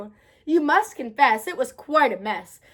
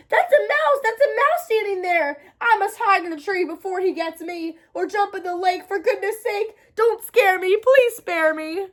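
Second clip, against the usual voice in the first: frightened elephant; 5 semitones higher than usual. Acted.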